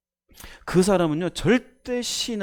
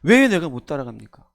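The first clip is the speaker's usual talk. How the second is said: mock indignant; 3 semitones lower, 5 dB louder than usual. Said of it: "베드로가 열받았어요".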